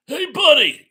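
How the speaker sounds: loud, high shout of a cop; cop's shout. Retold or imitated. Cop shouting at a driver from the joke. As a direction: bark it like a traffic cop. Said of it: "what is the old joke from".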